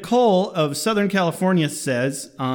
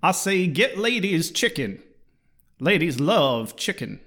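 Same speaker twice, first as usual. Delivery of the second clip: Foghorn Leghorn. Retold or imitated. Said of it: "Fucking Foghorn Leghorn".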